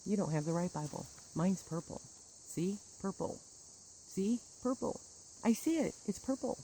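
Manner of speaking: a hint of a smug, soft, condescending leader; lightly voiced, patronizing and quiet; understated imitation of a smug church leader; mock group leader. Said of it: "this group leads like".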